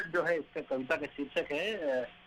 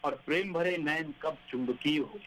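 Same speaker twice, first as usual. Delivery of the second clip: poem recitation. Acted.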